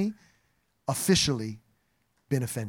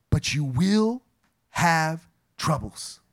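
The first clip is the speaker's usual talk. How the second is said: slow, drawn-out warning slipped in; mock ominous aside; 4 semitones lower, much slower than usual. Preacher mimicking the tough middle of the sandwich, slow and low. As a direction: drop the bad news slowly into the middle. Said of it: "is a compliment sandwich".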